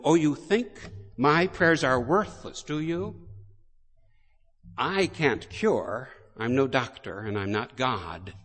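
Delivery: loud, challenging priest's comeback; angry retort. Retold or imitated. Priest answering the taunting devil, riled and defiant. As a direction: throw his taunt back at him, riled. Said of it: "this got Father's goat".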